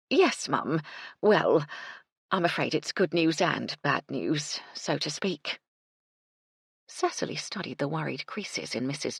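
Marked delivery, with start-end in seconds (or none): 0.1-5.6 breathless, eager housekeeper, quickening at the end; a bustling cook hurrying up to her employer; Mrs Chubb voice. Acted.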